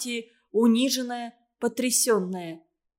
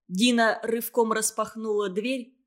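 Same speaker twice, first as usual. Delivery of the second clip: ordinary delivery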